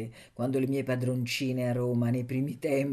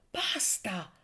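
commanding; slower than usual. A narrator's reading. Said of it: "comandò Margherita".

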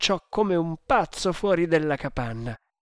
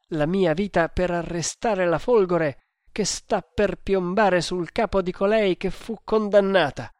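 higher, incredulous echo of the threat; raised pitch, questioning the sentence; exclaimed disbelief; 5 semitones higher, 3 dB louder than usual. Acted. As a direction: repeat it back in mild outrage. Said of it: "esclamò lui".

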